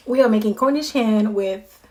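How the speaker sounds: camera shaking while talking; jostled voice, shaky delivery; on a bumpy road. Real, not acted. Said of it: "oh, my camera is shaking".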